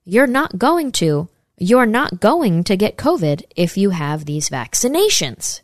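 a light, slowed imitation of Biden's halting speech; Biden impression. Vlogger mimicking Biden's halting speech for viewers. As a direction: lightly mimic an old man trailing off, slowly. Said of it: "'Cause remember, he talks like that".

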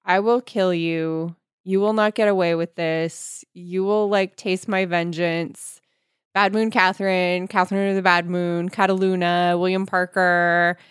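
mocking the repetitive books' dialogue; mock melodrama. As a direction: drone the clichés to mock the book. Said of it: "All they do are say".

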